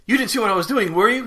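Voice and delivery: loud, high mock-indignant movie quote; Dark Helmet. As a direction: act out a flustered villain caught playing. Acting out Spaceballs scene, Dark Helmet.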